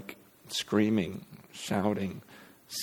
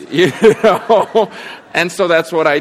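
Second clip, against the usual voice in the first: laughing it out, much higher and louder; 8 semitones higher, 11 dB louder than usual. Real, not acted. Pastor laughing at himself with the congregation, much higher and louder. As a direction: laugh at the memory.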